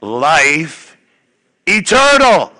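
"eternal" leaps very high and loud; joyful shout. Shown as a demonstration. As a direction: shout it like you're really happy. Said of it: "And so we're gonna say".

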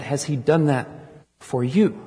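"for you" lifted and set apart at the end; stress on for you. Shown as a demonstration. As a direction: lean into "for you" as a rising personal question. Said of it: "The question is not".

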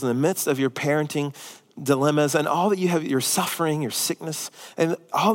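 quiet, sincere reassurance; soft earnest appeal. Real, not acted. Pastor gently reassuring the struggling congregation, soft and tender.

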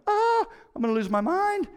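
high-pitched frustrated yell, hammed up; mock meltdown over the mess; exasperated outburst. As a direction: cry out like you're losing it. Frustrated outburst over messy house.

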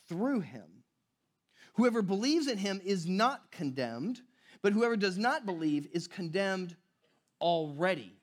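solemn reading of the verses; scripture reading. Acted. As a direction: read the verse with weight. Reads scripture aloud.

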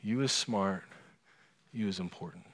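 a soft, loving nanny voice fading to a hush; nanny soothing the child on her lap, soft and tender; tender reassurance. Retold or imitated. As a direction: soothe the little girl gently. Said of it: "and she says".

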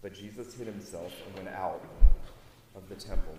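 measured, formal Bible reading; scripture reading. Acted. Preacher reading the gospel aloud to the congregation, formal and measured. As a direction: read the gospel passage with weight.

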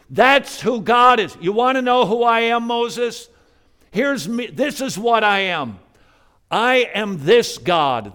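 preacher voices God proclaiming his mercy to Moses, shouting; preaching shout. Acted. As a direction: thunder it out as God declaring himself. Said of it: "He's screaming to you".

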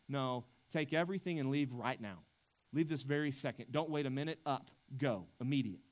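pushing them out right now, firm and urgent; each order given with force; forceful command. Retold or imitated. Preacher voicing Pharaoh's forceful order to leave. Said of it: "This is".

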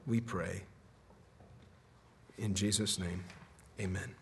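measured pastoral prayer in spaced phrases. Real, not acted. Pastor asking God for grace and mercy, solemn prayer.

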